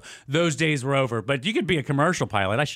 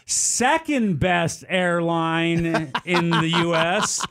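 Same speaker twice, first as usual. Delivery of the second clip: a lightly done intercom announcement, drawn out slowly; imitating the flight attendant; 2 semitones higher, much slower than usual. Retelling the Southwest attendant's announcement, lightly imitated. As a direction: play the flight attendant on the mic, a touch slow. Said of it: "The flight attendants come on".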